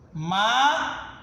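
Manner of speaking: "marabá" broken into ma, ra, bá with long gaps; syllable-by-syllable "marabá". Shown as a demonstration. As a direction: chant out "marabá" slowly, one syllable at a time, ending on bá. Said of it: "Quando a última sílaba".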